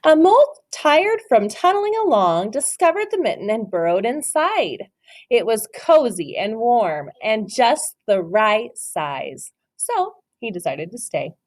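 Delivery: slow, gentle read-aloud voice; story narration. Acted. Teacher reads The Mitten to her class, storybook voice. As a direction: read it like a picture book for little ones.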